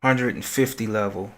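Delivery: reverb echoing in a big room; big hall echo. Real, not acted. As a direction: voice bouncing around a hall. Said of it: "Sorry about the reverb".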